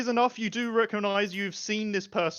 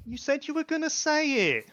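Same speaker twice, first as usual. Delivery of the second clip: raised, higher voice from behind the wall; an unseen man snapping at his wife; hidden man's voice; 10 semitones higher than usual. Acted. GM voicing the hidden husband, raised.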